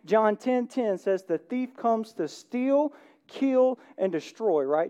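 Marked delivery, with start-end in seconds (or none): 1.2-4.6 slow, drawn-out Southern US accent on the verse. Shown as a demonstration. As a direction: lean into a Southern preacher accent. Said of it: "Did you hear my southern accent?".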